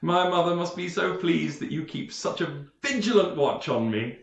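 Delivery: a touch of mock gratitude; sarcastic aside. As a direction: needle the guard dryly. Knight mocks guard through door.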